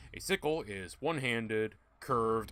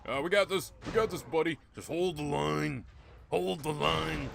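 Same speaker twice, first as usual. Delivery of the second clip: raised, urgent battle cry; playful rallying call; 6 semitones higher, 4 dB louder than usual. Pretend. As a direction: call out high and loud, stretching the orders. Rallying during a game fight.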